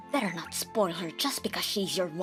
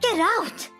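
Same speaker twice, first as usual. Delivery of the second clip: much higher, louder shriek; shrill shriek; 13 semitones higher, 3 dB louder than usual. Acted. Mother-in-law screaming her out of the house, shrill shriek. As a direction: scream Get out at the top. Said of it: "She was yelling".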